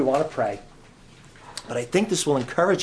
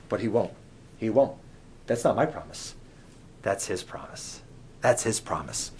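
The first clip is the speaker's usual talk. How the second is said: tender reassurance; 4 semitones lower, 7 dB quieter than usual. Acted. Reassuring, soft repeated promise.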